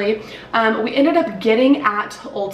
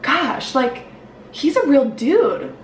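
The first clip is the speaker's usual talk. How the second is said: slow, higher, awestruck hush; awed; 4 semitones higher, slower than usual. Retold or imitated. Recalling meeting Manny to viewers, slow awed voice. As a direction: let the wonder sink in slowly. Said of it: "And I was like".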